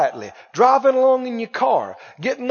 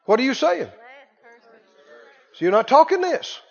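ordinary delivery

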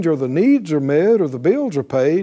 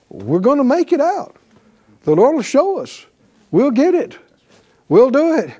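raised, upbeat believer's voice; a believer proclaiming victory; confident declaration; 7 semitones higher than usual. Pretend. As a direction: declare it with bold faith.

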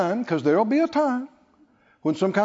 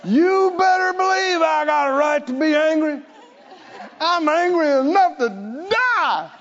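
mock angry Jonah; 6 semitones higher than usual. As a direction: snap back in hammed-up outrage. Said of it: "he said".

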